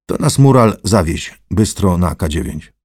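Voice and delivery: loud curt order; commanding Lichutki. Acted. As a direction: send him off briskly.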